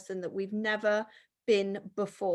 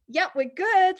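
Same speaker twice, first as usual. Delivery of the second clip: much higher and louder, upbeat and chirpy; excited husband; 8 semitones higher, 6 dB louder than usual. Retold or imitated. Husband checking on her crying, a bright excited reply. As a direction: bounce it up like good news arrived. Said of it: "it's almost like it's a".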